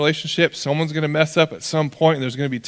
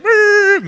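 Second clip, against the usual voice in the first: high, loud vocal engine rev; revving engine noise; 7 dB louder than usual. Retold or imitated. Drivers doing Brodies around the stuck truck, engine revving. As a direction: imitate a truck whining through sand. Imitates trucks spraying sand in dunes.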